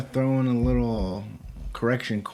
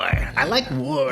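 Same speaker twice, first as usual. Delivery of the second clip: slow dramatic voice; 3 semitones higher, slower than usual. Acted. Joking deep voice line.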